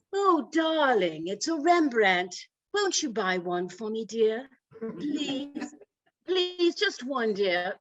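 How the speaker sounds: lightly voiced rich society wife, drawn-out pleading; a hint of a pampered socialite begging sweetly; Mrs. Howell mode. Wife to husband before a Rembrandt, mock posh pleading. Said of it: "went into a Missus Howell mode".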